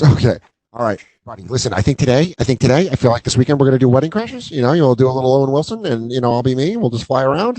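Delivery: rapid-fire buddy pitch; light impression of a fast-talking movie pal; Vince Vaughn. Vince pitches Wedding Crashers to a friend, rattling it off quickly. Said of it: "It's like Vince Vaughn, Dan. It's really good".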